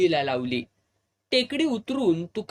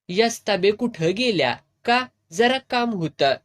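put-on higher, louder young girl's voice; a lively young neighbour girl asking; 4 semitones higher, 5 dB louder than usual. (उंच आवाजात तरुण मुलगी)

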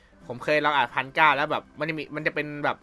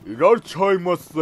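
store uncle's greeting; 3 semitones higher, 5 dB louder than usual. Retold or imitated. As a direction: stretch it out like the 7-Eleven uncle. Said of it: "แต่เสียงเป็น".

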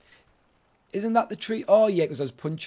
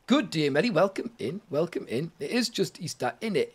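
Cockney. Pretend. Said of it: "Since when were you Cockney".

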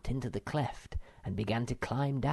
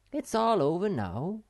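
reassuring; 8 semitones higher, 3 dB louder than usual. A narrator's reading. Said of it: "said Snufkin".

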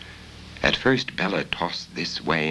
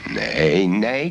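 a cross, louder croaking nay; 5 dB louder than usual. Acted. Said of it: "croaked the voice crossly".

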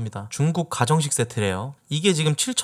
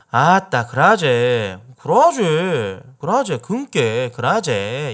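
Jeolla dialect; 5 dB louder, much slower than usual. Shown as a demonstration.

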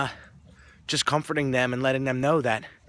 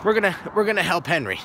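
teacher addressing the class; 8 semitones higher than usual. Retold or imitated. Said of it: "she goes".

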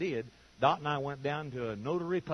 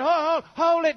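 sharply raised call to halt, higher and louder; retold call to stop; 11 semitones higher, 10 dB louder than usual. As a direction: cut the lawyers off mid-sentence. Preacher retells stopping the lawyers.

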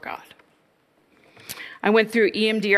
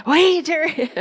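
meek Ted; 11 semitones higher, 7 dB louder, slower than usual. Retold or imitated. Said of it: "he's not strong personality at all".

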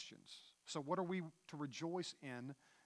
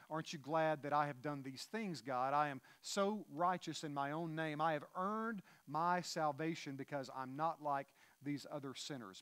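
proud Pharisee; 2 semitones higher, 5 dB louder than usual. Retold or imitated. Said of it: "the Pharisee saying".

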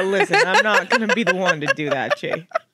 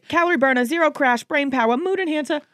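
hyped ad read; 8 semitones higher than usual. Pretend. Reading product claims.

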